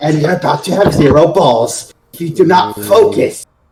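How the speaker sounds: shouting in a put-on character voice. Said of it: "I moved down here just yelling at my comrades".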